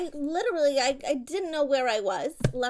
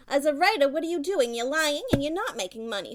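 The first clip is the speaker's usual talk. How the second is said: scornful jab; 3 semitones higher, 4 dB louder than usual. Real, not acted. Mother belittling child's career.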